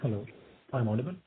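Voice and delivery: faint, distant voice on a weak phone line; speaking too softly into the phone; barely audible. Real, not acted. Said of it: "Your voice is very low".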